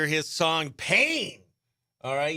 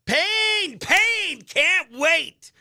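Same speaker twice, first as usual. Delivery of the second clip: excited; 12 semitones higher, 4 dB louder, much slower than usual. Real, not acted. Excited about upcoming song.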